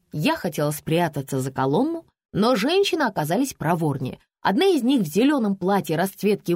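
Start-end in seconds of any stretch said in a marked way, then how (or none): none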